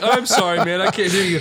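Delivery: mock robot voice. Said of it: "That robot just told me".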